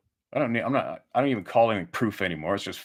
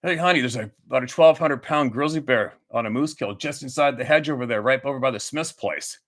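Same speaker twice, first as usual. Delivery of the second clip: mock casual husband; 2 semitones higher than usual. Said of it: "You don't go like this".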